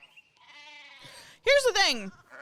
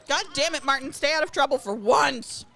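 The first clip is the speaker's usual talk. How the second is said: scolding villager; 3 semitones higher than usual. Acted. NPC scolding Martin.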